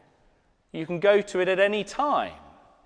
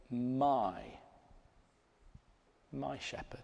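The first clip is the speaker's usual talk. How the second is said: hushed whisper; 4 semitones lower, 10 dB quieter than usual. Acted. The believer's intimate confession.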